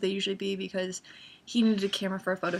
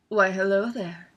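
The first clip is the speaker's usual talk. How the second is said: slow, drawn-out come-hither greeting; flirty admiration; 4 dB louder, slower than usual. Retold or imitated. Spotting an attractive Sherlock, flirty. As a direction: stretch it out like spotting someone attractive.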